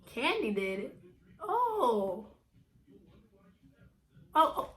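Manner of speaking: quoting her own shock, a breathy cry; shocked disbelief. Retold or imitated. Friend reveals betrayal, shocked disbelief. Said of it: "I'm like".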